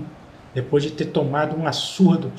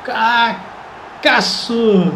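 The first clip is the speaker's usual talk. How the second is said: explosive goal commentary; 6 semitones higher, much slower than usual. Real, not acted. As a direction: belt out the goal, stretching the words. Equalizer goal, commentator erupts.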